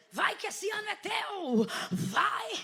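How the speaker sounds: high, slow, drawn-out urging; hyped prophetic call. Acted. Preacher promising this is your year, high hammed-up proclamation. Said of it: "é vai".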